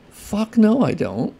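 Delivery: high, forceful "Fuck no"; emphatic refusal. Real, not acted. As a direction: shut the idea down hard, then drop back. Emphatic refusal to entitled fans.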